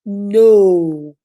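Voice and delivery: a firm, loud No. Shown as a demonstration. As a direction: say it like you mean it. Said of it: "practice it with me".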